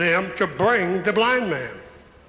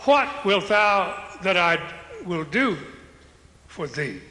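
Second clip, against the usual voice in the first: tender question. Shown as a demonstration. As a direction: ask gently, letting it fall away. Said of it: "Be specific with me".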